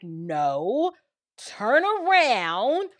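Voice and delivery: imitating a friend's slow, emphatic order; lightly acted, drawn-out command to stop her; firm friend. Friend firmly orders her back.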